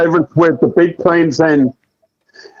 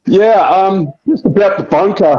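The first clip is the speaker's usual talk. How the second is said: muffled, hollow phone line; inside a fishbowl. Real, not acted. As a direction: caller sounds underwater. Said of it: "Sound like you're in a bloody fishbowl".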